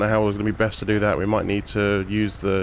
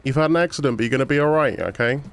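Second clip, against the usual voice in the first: reassuring; 4 semitones higher than usual. Real, not acted. Paramedic reassuring waking patient.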